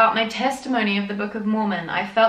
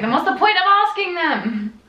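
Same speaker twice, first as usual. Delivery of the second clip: laughing; 10 semitones higher, 4 dB louder than usual. Real, not acted. Laughing disbelief at missionaries.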